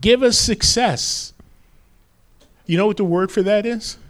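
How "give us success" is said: high, drawn-out proclamation; imitated priestly proclamation, slow and high; proclaiming. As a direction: cry it out like priests at the altar.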